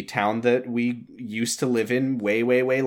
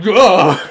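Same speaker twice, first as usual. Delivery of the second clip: loud, high mock cry of dread; mock horrified groan; 7 semitones higher, 10 dB louder than usual. Acting out freaking out at the answering machine, loud mock groan. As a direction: blurt a loud freaked-out "ugh".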